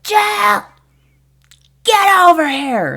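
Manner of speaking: high, loud holler across the field; drawn-out shouted summons; urgent call. Retold or imitated. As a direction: imitate a coach yelling for help. Coach calling her over mid-game.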